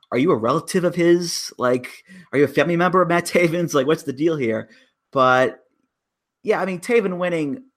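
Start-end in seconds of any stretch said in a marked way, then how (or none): 0.1-4.7 higher, curious mock question to a stranger; asking the crying fan half-joking. Joking question to the weeping fan in the crowd. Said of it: "tap him on the shoulder and be like".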